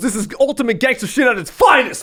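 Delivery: fight-night announcer call. Retelling how a fight announcer hyped the crowd: imitating an announcer's hype call. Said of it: "he goes".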